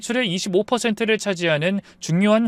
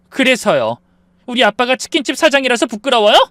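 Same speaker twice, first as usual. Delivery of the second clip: angry challenge; 8 semitones higher, 7 dB louder than usual. Acted. 부부싸움, 아내가 따짐.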